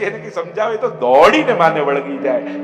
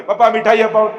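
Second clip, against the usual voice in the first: put-on high, louder begging child voice; child pleading; 5 semitones higher, 7 dB louder, faster than usual. Son begging father for sweets at the fair, pleading. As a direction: whine like a little boy tugging dad.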